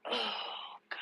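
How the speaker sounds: very soft, breath-only "oh, God"; exasperated sigh. Real, not acted. Narrator despairing at the excuse, exasperated sighed whisper. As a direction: sigh it out almost voicelessly.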